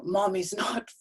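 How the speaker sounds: lightly voiced sulky child, high and slow; a hint of a pouting little boy; mimicking her son. Son complaining to bear about screen, lightly mimicked high and slow. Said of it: "starts talking to me as though I am a bear".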